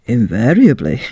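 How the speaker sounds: sly whispered reply; captain's secretive whisper. A narrator's reading. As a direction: breathe it out, no voice. Captain answers in story.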